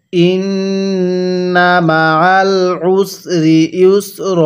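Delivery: stretched syllables, measured Arabic reading; slow recitation. Shown as a demonstration. Teacher models the word slowly for learners to copy. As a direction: draw out ওয়া র ফা না evenly. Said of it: "এরকমভাবে পড়ব।".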